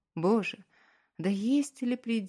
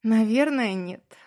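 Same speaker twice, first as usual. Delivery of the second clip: forced out; 5 semitones higher, 7 dB louder than usual. A narrator's reading. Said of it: "тяжело сглотнув, выдавила".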